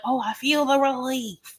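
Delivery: high, slow, put-on sigh of relief; mock Angela relief. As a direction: drag out a fake blissful relief. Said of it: "she's like".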